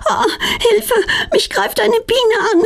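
put-on a scared girl's high panicky cry; frightened cry for help. A narrator's reading. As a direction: shriek it as a bee attacks. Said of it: "Die beiden Mädchen erschrecken sich".

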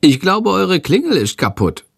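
high, small bird-creature voice, puzzled; a little high-voiced bird creature wondering aloud. A narrator's reading. Bird Schandor puzzles to the children, high creature voice.

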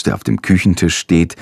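usual speaking voice

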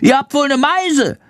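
high squeaky bat; chirpy little bat creature. A narrator's reading. Bat Chandor's voice.

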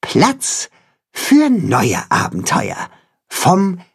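leicht angedeutete Freude, Platz hoch angesetzt; verträumt hoffnungsvoller Ausklang; freudig. A narrator's reading. Timme's happy closing line. (Timme schwärmt leise von neuen Abenteuern)

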